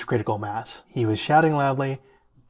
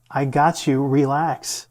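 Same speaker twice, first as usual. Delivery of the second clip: raised voice, imitating a friend trying to calm; insistent retold friend; 4 dB louder, slower than usual. Friend to yelling patient in the ER, insistently calming. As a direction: keep reassuring over the yelling, louder. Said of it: "repetitive conversation".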